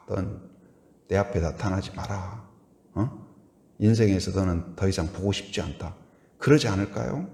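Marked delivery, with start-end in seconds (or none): 0.1-5.9 1 cold quiet rejection. Acted. Acted hurt friend rejecting.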